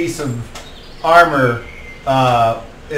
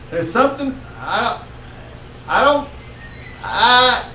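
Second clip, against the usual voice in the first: high, halting character voice; Kettle Tom; 9 semitones higher than usual. Acted. Game master as a reluctant party member, hesitant high voice. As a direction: stammer uneasily, pitched well up.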